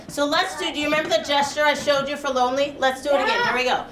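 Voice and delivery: ordinary talk, nothing marked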